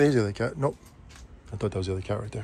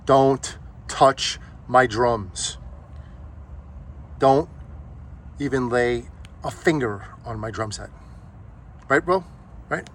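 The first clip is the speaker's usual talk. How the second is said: slow, lightly voiced movie line; Step Brothers quote; slower than usual. Dog voiced quoting Step Brothers to the new cat, slow, lightly put-on warning. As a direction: drag out a possessive warning about the drums. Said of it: "That's from Step Brothers".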